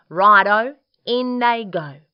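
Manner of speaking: high, loud, jolly go-ahead; cheery agreement. Acted. Dingo accepting Emu's feathers, loud and eager.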